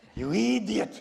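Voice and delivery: high, loud, unhinged psychotic yell. Describing a psychotic film character yelling at someone: imitating Peter Lorre yelling. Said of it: "he's yelling at the".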